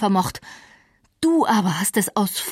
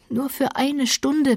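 slow, higher earnest begging; slow, higher pleading; pleading earnestly; 7 semitones higher, slower than usual. A narrator's reading. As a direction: beg for just one hour, slowly. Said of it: "bat er inständig".

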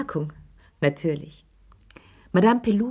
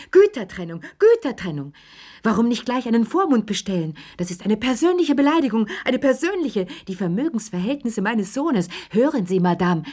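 shrill-pitched mock outrage, much higher; mocking the mother; 6 semitones higher than usual. Chérie mimics Madame Pelloux's outrage for Lea, higher and mocking. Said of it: "damit ich Madame Pellouxs Arme nachmachen kann".

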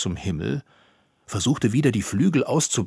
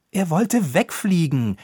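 defensive, raised protest; Ropucha; 8 semitones higher, 5 dB louder than usual. A narrator's reading. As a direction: protest loudly in self-defence. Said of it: "verteidigte sich Ropucha". (sich laut verteidigend)

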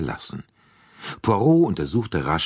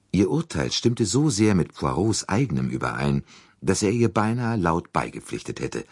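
ordinary talk

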